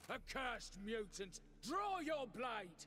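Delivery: high-pitched, hostile, challenging yell. A foe confronts Geralt, blaming him for their downfall, yelling. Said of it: "No need to yell".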